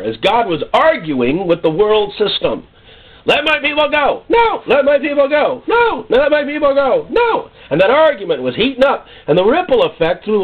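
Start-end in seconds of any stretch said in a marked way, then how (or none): 3.3-7.5 shouted demand. Acted. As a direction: bellow it like God pressing Pharaoh. God demanding Pharaoh release people.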